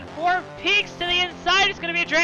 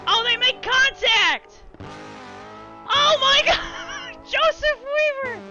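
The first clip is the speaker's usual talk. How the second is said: excited shout; 7 semitones higher than usual. Real, not acted. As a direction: yell it out as the cars collide. Crash at the finish, commentator.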